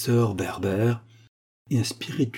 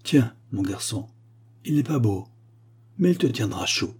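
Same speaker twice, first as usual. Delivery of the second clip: lightly voiced tender mother; a hint of a mother's tenderness; gentle mother. An imagined old mother gives her son a coat, lightly tender. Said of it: "le matin a dit".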